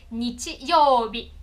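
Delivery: "nichiyoubi" very slowly, ni-chi-you-bi; Japanese word for Sunday. Shown as a demonstration. Teacher saying the Japanese for Sunday, very slowly. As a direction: spell out "nichiyoubi" one syllable at a time. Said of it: "quando a gente vai falar domingo".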